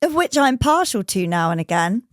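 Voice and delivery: holding back burps; burping. Real, not acted. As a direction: talk between burps. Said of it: "Sorry, I'm really burping".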